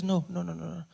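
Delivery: mother gently consoling her son; soothing mom. Retold or imitated. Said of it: "she says".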